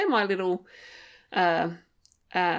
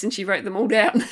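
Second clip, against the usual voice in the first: laughing through the words; amused, laughing aside; 6 dB louder than usual. Real, not acted. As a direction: chuckle as you say it. Amused retelling of the psych session.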